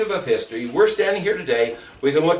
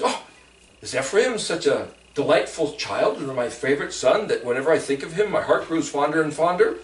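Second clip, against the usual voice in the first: fond father; 5 semitones lower than usual. Acted. God voiced fondly.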